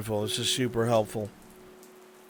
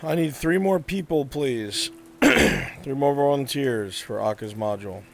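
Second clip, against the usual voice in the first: louder call for volunteers; 3 semitones higher, 5 dB louder than usual. Real, not acted. Game master asking the room for three more volunteers, calling out. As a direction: project a request to the whole room.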